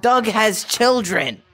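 loud, high and stretched out in disbelief; booming incredulous announcement; astonished shout. Real, not acted. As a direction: announce it at a yell, slowly, amazed. Astonished discovery, calling to friend.

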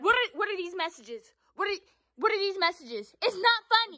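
high, heated questioning; angry demand. Real, not acted. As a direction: demand answers sharply. Demanding answers from sister.

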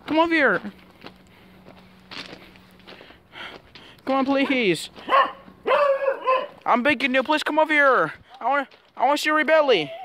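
high, begging puppy whine; pleading dog voice. Pretend. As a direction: beg like a lonely little dog.

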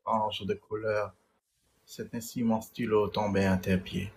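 declaimed love poem, phrase by phrase; poem recital. Acted. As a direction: recite with firm stresses and measured pauses. Récite son poème. (déclamation poétique)

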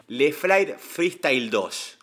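a song title spelled out slowly, word by word; struggling to get the name out, very slow; slow careful naming. Real, not acted. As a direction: drag out the title as if the words won't come easily. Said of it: "Hoy me cuesta hablar un montón".

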